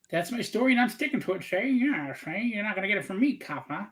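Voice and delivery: lightly voiced old-movie gangster; mock tough guy. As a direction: put on a playful tough-guy act. Mock tough-guy routine to a cop.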